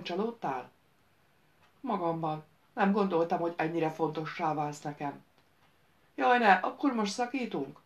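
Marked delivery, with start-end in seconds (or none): 6.1-7.8 raised, louder dismayed moan; a mock-anxious groan at the idea of a breakup. A narrator's reading. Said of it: "Nyögte Jade".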